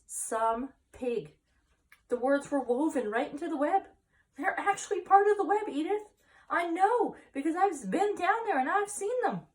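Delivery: high, loud and rising with wonder; breathless with awe at a miracle; awed excitement. Acted. Farmer telling his wife of the miracle, high and excited.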